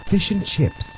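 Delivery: very soft imitation British accent. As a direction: say it softly like a Brit. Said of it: "The British are saying fish and chips".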